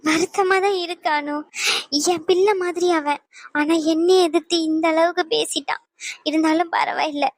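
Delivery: wounded, slightly tearful admission; tearful hurt. Acted. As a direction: confide the hurt through tears. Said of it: "அக்கா அழுகாதீங்கக்கா".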